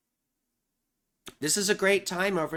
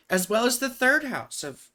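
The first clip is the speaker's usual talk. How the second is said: fighting back a yawn; 6 semitones higher than usual. Real, not acted. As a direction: talk through a yawn. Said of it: "I can't stop yawning".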